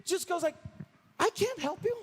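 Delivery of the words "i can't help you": acted helplessness, pitched higher; a mildly desperate, high-pitched protest; desperate cry. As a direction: plead helplessness without shouting. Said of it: "this is a desperate cry".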